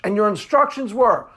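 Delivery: usual speaking voice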